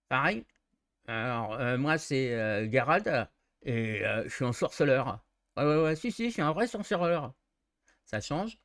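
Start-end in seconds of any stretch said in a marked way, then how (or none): 0.1-7.3 jutting jaw witcher. Shown as a demonstration. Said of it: "les trois hauteurs de voix".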